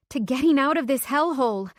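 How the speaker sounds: tipsy narrator toasting her escape; cheerful toast. Acted. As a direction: lift the glass and cheer.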